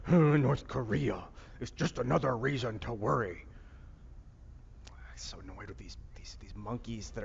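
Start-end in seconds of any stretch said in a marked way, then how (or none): 0.1-3.4 loud, slow mock alarm; hammed-up politician, drawn out and loud; Marco Rubio. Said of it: "Marco Rubio is like".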